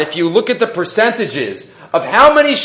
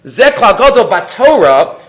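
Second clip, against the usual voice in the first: Ze klal gadol Batorah with the weight on Batorah; stress on Batorah; 3 dB louder than usual. Shown as a demonstration. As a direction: press "Batorah" as the point. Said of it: "What do you mean Batorah?".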